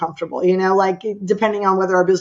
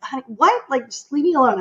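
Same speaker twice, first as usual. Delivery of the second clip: higher-pitched, irritated brush-off; mildly exasperated, pitched up; brusque; 5 semitones higher than usual. Retold or imitated. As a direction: retell a curt reply to a husband. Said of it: "I turned brusquely, very brusquely back".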